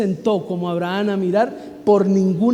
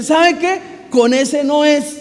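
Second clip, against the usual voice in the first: much higher, then slow and weighty; voice of God; 6 semitones higher, slower than usual. Retold or imitated. The Lord telling Abraham the son is Sara's - solemn. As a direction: speak as God setting the record straight.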